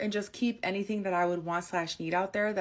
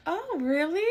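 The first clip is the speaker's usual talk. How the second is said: fake innocent; 9 semitones higher than usual. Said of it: "I'm sitting there like".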